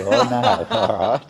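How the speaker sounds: laughing through the words; amused, won't give the secret away. Real, not acted. To Cheapy, laughing as he keeps the secret.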